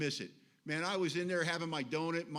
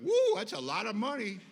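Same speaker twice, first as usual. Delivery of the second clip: sponsor laughing; 3 semitones higher, 7 dB louder than usual. Retold or imitated. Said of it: "he went".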